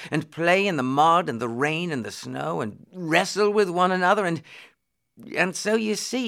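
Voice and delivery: lightly voiced, excitable boy; eager poor lad. Tom describes rough play to the prince, eagerly.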